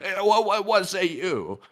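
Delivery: put-on character voice. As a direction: stumble through it in the character's own halting way. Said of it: "it happens to go a little something like this".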